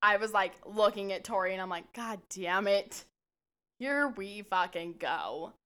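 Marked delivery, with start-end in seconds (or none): 1.9-5.5 slow, drawn-out resignation; weary dread. Retold or imitated. Friend watching the couple start fighting, slow weary groan. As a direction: drag it out like you've seen it before.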